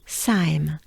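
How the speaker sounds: "Saim" drawn out, falling in pitch; final syllable demo. Shown as a demonstration. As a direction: model "Saim" on its own for learners. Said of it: "And then we end with".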